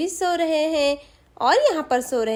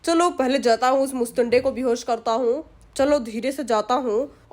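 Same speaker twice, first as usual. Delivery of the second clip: scheming thief musing to himself, lightly acted; a touch of a greedy burglar plotting aloud; lightly voiced thief; 4 semitones lower than usual.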